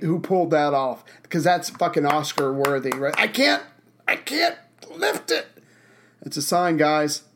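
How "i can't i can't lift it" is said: high wailing I can't lift it; hammy overacted despair. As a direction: overact it like a bad actor. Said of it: "who is the actor that made".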